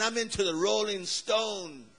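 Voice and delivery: lightly voiced slow rocker dude; slow, hint of a dude; rocker dude impression. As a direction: draw it out like a laid-back rock fan. Acting the rock-loving villager.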